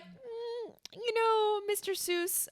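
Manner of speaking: high, laughing mock-polite publisher. Publishers humoring an author, high and laughing. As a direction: coax the author with fake sweetness.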